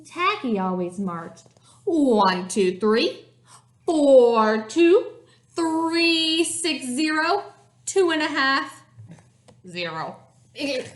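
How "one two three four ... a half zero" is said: silly marching count. A narrator's reading. Reader counting out Tacky's odd march to children, silly marching count. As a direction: count out an off-beat march with gusto.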